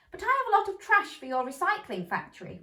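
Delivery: high, fast little mouse voice; Missus Mouse objecting. A narrator's reading. Reading to children, Missus Mouse answers high and fast. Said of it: "replied Missus Mouse".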